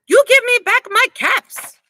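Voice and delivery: high, loud demand; angry peddler demand. Acted. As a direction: order them to give the caps back. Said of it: "shaking his finger at them".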